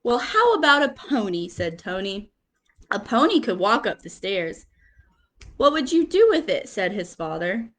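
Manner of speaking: lively picture-book reading with quote voices; reading to children. Acted. Teacher reading picture book to class, lively storytelling. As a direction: read it like story time for little kids.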